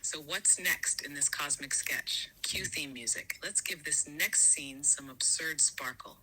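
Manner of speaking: slow, voiceless whisper; slow playful whisper. Acted. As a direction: hush it out slowly like a stage cue.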